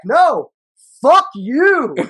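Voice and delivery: high, hammed-up retort yell; mock shouting match comeback, topping the first yell; yelling back. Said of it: "And I'm yelling back".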